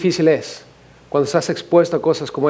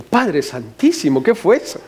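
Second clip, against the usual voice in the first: shocked exclamation; 2 semitones higher than usual. Retold or imitated. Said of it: "Y dije".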